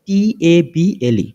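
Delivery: টি এ বি এল ই letter by letter; name each letter in turn, টি এ বি এল ই; spelling out. Shown as a demonstration. Teacher spelling a sample word for learners, letter-by-letter spelling. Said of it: "একটা word যদি আমি বলি".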